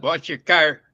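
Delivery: flat Chicago vowels; Chicago accent. Shown as a demonstration. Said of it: "Chicago people that talk about".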